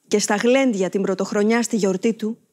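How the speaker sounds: ordinary talk, nothing marked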